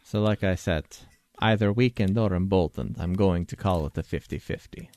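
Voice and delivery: lightly voiced, deliberate expert advisor; measured expert. Expert answering a party member's spitballed idea, measured. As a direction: weigh it up formally, as a consulted expert.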